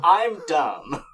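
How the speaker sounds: laughing self-mockery. Real, not acted. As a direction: laugh it out at yourself. Laughs at own joke.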